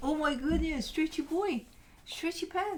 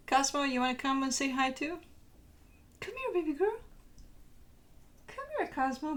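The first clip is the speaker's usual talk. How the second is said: calling dog; 5 semitones higher than usual. Real, not acted. Owner calling the other dog over.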